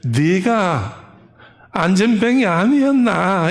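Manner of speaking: drawn-out first word in Gyeongsang dialect. Retold or imitated. Putting the grandmothers' question plainly, in Gyeongsang dialect. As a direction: put it bluntly in Gyeongsang dialect. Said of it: "쉽게 경상도 말로".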